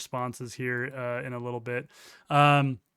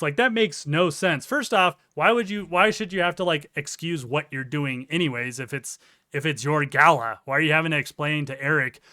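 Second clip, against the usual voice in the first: exasperated; 6 dB louder than usual. Real, not acted. Ranting about the excuse.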